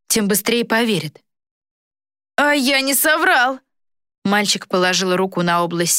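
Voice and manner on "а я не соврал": put-on high, slow boy's voice; boy traitor, smug. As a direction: play a slyly pleased boy.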